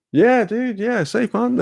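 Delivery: high-pitched, drawn-up dude voice; imitated easygoing stoner reply; mock laid-back dude. Acting out keen reply to offer.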